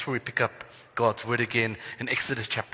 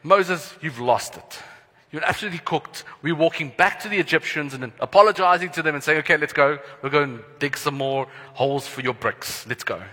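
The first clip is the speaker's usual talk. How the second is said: mocking complaint; 2 semitones higher, 4 dB louder than usual. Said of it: "I can just imagine some of them going".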